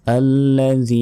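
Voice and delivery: আল্লাযী with "dhii" held very long; tongue-out "th" as in "this" in আল্লাযী; slow recitation, stretching the end of আল্লাযী; long final vowel. Shown as a demonstration. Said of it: "তিন second টেনে পড়তে হবে".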